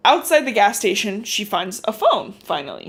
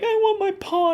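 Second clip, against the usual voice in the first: mock scream; 11 semitones higher than usual. Child runs away wanting her pa, mock screaming. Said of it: "runs away screaming".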